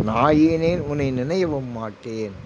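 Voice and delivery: drawn-out devotional intoning; slow verse recitation. Acted. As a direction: stretch each word of the hymn slowly. (மெதுவாக பாடல் ஓதுதல்)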